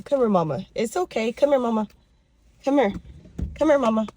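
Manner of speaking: gently insistent call to the dog; coaxing a pet. Real, not acted. Owner calls her dog over, coaxing. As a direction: coax a dog over, pitch lifting as you go.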